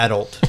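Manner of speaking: "adult" echoing the co-host's AD-ult; front-stress "adult", grudgingly copying the correction; imitated pronunciation. Host conceding to co-host's version, "adult" said as AD-ult. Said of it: "if you wanna pronounce it like that".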